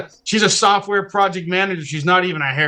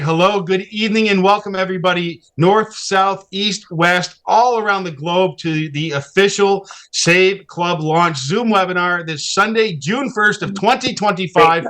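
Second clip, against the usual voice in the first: slow, raised announcer voice welcoming everyone; announcer opening; 3 semitones higher, slower than usual. Acted. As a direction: open the show like a host, slowly. Official webinar introduction.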